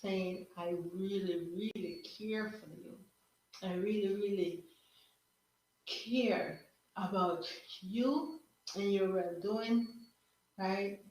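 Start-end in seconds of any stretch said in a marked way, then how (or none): 0.6-9.9 sincere caring. Shown as a demonstration. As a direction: say it gently, drawing out the care. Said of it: "depends on how you say it".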